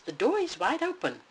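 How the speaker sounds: high, loud little cub calling; small boy bear calling his parents; tiny little bear voice. Acted. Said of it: "he called in his tiny little voice".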